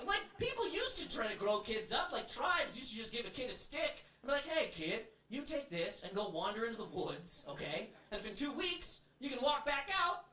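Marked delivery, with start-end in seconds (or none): 4.5-10.3 mock tribal elder. Tribe elder speaking to kid.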